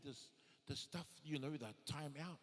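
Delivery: usual speaking voice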